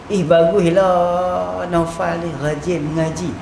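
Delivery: slow, drawn-out praise, evenly pitched. Shown as a demonstration. Teacher demonstrating praise for a student's studying, slow praising delivery. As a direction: say it slowly as straightforward praise. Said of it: "Tu puji".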